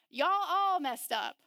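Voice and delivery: slow, exasperated put-on voice; a drawn-out mock scolding of everyone; exasperated human. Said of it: "be like".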